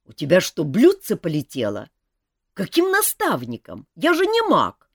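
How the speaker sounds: шут Жак. A narrator's reading. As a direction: wave it away lightly. Жак возмущается. (небрежный шут, выше и громче)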